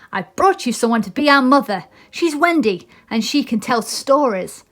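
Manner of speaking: lightly voiced proud boy; a boy showing off his find; Peter Pan. Peter introduces Wendy.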